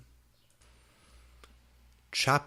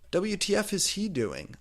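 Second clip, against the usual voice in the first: shocked question; 10 semitones higher, 3 dB louder than usual. Acted. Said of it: "I asked".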